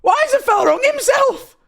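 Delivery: high, loud, shrieked British indignation; very British outburst. Pretend. Streamer reacting to the boy's drawing, shrieking very British outrage. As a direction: yell it in broad British disbelief. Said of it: "I went really British".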